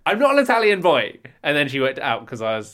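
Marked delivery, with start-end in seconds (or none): 0.0-1.2 retold shout. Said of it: "an English guy shouting in English".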